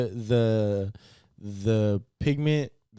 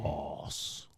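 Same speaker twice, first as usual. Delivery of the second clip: whispered gracias; 8 semitones lower, 12 dB quieter than usual. Retold or imitated. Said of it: "Like Bane".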